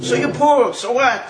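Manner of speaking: acted rhetorical "so what"; dismissive consolation. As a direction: shrug off the complaint emphatically. Rabbi Yochanan consoles a poor man.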